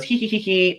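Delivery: high, spelt-out "hee hee" giggle; mock giggle. Reads out her typed giggle.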